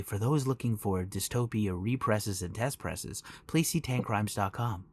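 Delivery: slow, restrained public-radio announcer; hushed, unhurried public-radio host parody; NPR voice. Acted. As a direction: read it as a measured, understated radio plug. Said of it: "I'll put on my N P R voice".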